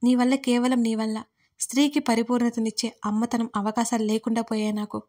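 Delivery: bitter accusation. Acted. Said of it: "నిట్టూర్పుగా ఓ నవ్వు నవ్వి".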